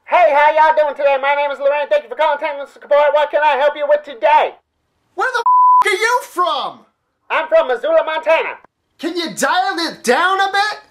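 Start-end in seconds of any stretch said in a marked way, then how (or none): 0.0-4.5 put-on thick Southern accent. Mocking an American support agent, thick Southern accent. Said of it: "such a thick accent ... Kinda like this". 5.2-6.9 much higher, incredulous yelp; shocked outburst. Acted. Caller stunned by the agent's accent, high shocked yelp.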